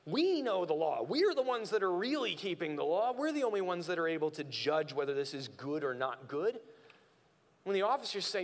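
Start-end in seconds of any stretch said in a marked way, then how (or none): 0.0-6.6 haughty Pharisees. Retold or imitated. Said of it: "look down on the crowds and say".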